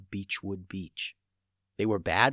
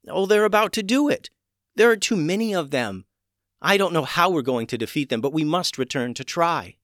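desperate mermaid; 7 semitones higher, 4 dB louder than usual. A narrator's reading.

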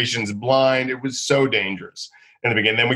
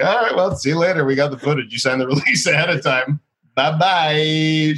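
higher, breezy brush-off; breezy dismissal; 5 semitones higher than usual. Retold or imitated. Host dismissing the angry actress, breezy. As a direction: wave her off cheerfully. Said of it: "I was like".

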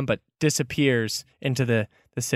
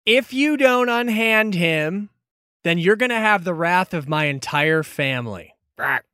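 threatening Kenku; 3 semitones higher than usual. Acted. Kenku threatens family wrath to free its kin, squawky menace.

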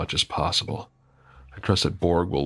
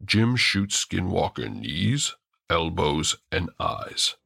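gentle orc voice. Acted. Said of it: "as gently as an orc can".

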